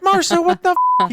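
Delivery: high, loud, slow disgusted cry; disgusted shock. Retold or imitated. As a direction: recoil from the smell in shock. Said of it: "I'm like".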